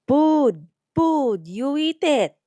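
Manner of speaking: put-on high, loud old grandma repeating "food"; grandma urging her granddaughter to eat; insistent Lola. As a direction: insist like a grandmother feeding you. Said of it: "She mumbles a little more clearly now".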